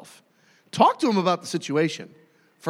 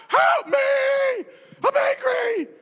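mock terrified scream; much slower than usual. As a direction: scream for help like a murderer is on the porch. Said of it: "scream in terror".

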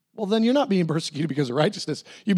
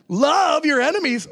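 mock outrage; 9 semitones higher, 3 dB louder than usual. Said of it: "And he says".

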